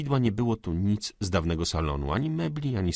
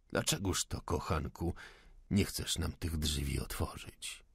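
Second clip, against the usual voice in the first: soft, lowered, honeyed question; sweet coaxing; 3 semitones lower, 8 dB quieter than usual. A narrator's reading. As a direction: coax the servant sweetly and softly. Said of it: "słodko zapytał major". (słodkie, przymilne pytanie majora)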